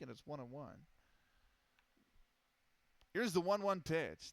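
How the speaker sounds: steady announcer's call of each pitch; play-by-play. Acted. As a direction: call the game like a radio announcer. Live play-by-play of a game.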